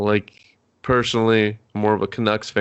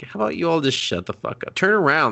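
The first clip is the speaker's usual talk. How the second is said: exasperated retort; 7 semitones higher than usual. Retold or imitated. Yelling at characters on screen.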